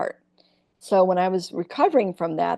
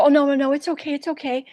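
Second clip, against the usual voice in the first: high, self-effacing Iowa waitress; put-on Iowa accent; 7 semitones higher than usual. Waitress excusing bad tippers, high sweet Iowa accent. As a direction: guilt them sweetly in an Iowa voice. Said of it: "I'd turn on my Iowa".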